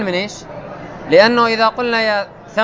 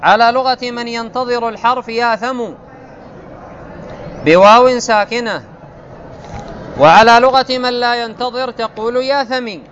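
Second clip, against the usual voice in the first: measured, raised recital of the classical grammar text; a higher, deliberate textbook reading; 4 semitones higher than usual. Acted. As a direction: read the rule out like a set text. Reads grammar text aloud.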